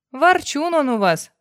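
smiling woman teasing about a grumbler. Acted. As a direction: say it with a smile, teasing. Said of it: "улыбнулась Ирина".

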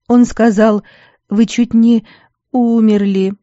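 put-on a girl breaking down again; crying. A narrator's reading. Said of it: "снова заплакала девчонка".

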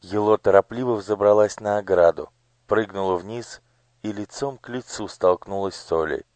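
ordinary delivery, nothing marked

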